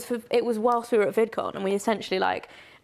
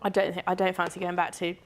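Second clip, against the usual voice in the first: crunching a mint; 4 semitones lower, 3 dB quieter than usual. Real, not acted. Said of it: "I really crunched to eat it in time to answer that question".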